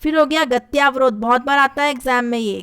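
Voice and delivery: ordinary delivery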